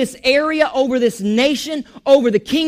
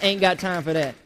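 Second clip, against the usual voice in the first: softer and lower, fading out; quiet throwaway; 5 semitones lower, 6 dB quieter than usual. Shown as a demonstration. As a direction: let it drop to a soft mutter. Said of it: "repeated three times".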